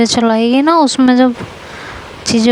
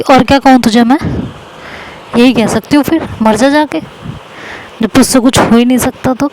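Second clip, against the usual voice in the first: angry retort. Retold or imitated. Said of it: "तू बहुत गुस्से में".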